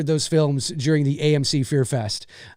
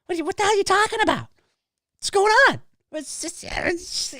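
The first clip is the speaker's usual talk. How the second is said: baffled; 14 semitones higher than usual. Retold or imitated. Baffled reaction to stereotype.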